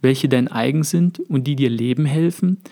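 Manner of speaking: measured literary reading of a novel passage; story narration. A narrator's reading. Narrator reading Hesse's Siddhartha to his listeners, calm storytelling. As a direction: read it like an audiobook narrator, unhurried.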